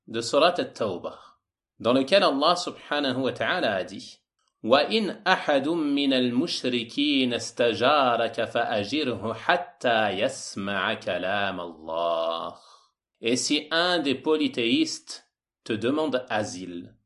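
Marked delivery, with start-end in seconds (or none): 4.6-12.6 measured chant-like verse recitation; Quran recitation. Acted. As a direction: recite the verse, slowing and drawing out the ending. (récitation coranique posée)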